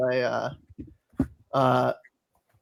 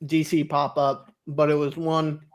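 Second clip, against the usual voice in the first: mouth full. Real, not acted. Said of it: "Sorry, I'm chewing on an ice cube".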